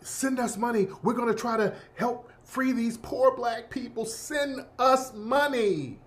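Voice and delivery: white supremacists sweet-talking donors, quietly asking for money; hushed pitch. Retold or imitated. Finessing donors with a hushed charity plea. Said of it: "So they were like".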